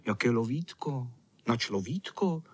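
ordinary delivery, nothing marked

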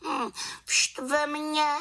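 put-on very high girlish little witch. A narrator's reading. Little witch admitting her slip, very high voice. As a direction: answer sheepishly as a young witch. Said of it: "řekla malá čarodějnice".

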